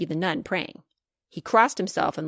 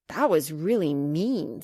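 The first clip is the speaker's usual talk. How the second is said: hurt; 3 semitones lower, slower than usual. Acted. Hurt, shoulders drooping.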